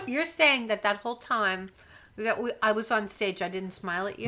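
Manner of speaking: talking while chewing gum. Real, not acted. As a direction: gum in the mouth while speaking. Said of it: "Must you have gum in your mouth".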